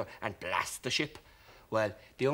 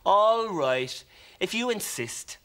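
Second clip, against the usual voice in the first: disappointed; 7 semitones higher, 6 dB louder, slower than usual. Acted. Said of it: "Boop was a bit disappointed".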